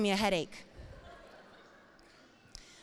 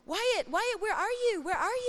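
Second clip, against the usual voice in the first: frantic calling; 9 semitones higher than usual. Retold or imitated. Mother searching frantically for son.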